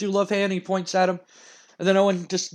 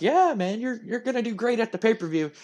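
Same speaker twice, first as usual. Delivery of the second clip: higher, softening mock encouragement; unconvincing reassurance; 5 semitones higher, 3 dB quieter than usual. Trainer to friend about to get killed, falsely reassuring. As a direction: humor him in a raised pitch. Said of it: "assuring his friend, but he knows".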